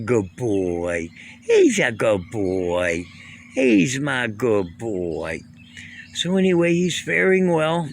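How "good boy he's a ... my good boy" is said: soothing pet praise. Real, not acted. Praising his cat Gracie, slow and soothing. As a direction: stretch every word to calm him.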